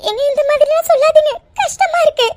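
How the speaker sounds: tearful plea. Acted. Wife pleading with her angry husband, tearful. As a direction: beg him to stop.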